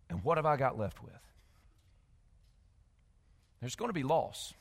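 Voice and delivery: low, very soft, grave delivery; quiet, low and weighty; hushed solemnity. Real, not acted. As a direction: sink to a sober hush, with long pauses. Sobering picture of standing before God.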